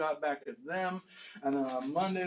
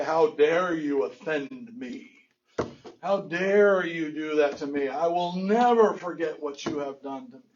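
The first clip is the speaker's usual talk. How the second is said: slow, loud, affronted accusation; indignant grievance; 7 dB louder, slower than usual. Acted. One sinner berating another, slow and indignant. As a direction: draw it out like a wounded, self-righteous victim.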